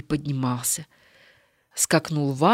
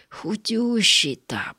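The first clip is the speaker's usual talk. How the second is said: amazed; 3 semitones higher, much slower than usual. Acted. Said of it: "поразился Егор".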